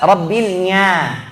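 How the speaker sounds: Rabbil Nya with a Javanese nasal nya, slow; teacher imitates a Javanese reader; Javanese accent. Shown as a demonstration. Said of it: "Orang Jawa".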